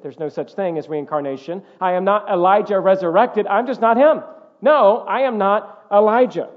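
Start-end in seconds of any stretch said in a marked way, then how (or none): 1.8-6.5 emphatic denial. Retold or imitated. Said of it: "he states emphatically".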